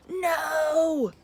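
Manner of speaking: loud high refusal; stubborn no. Acted. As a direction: snap it back defiantly. Ned refuses again.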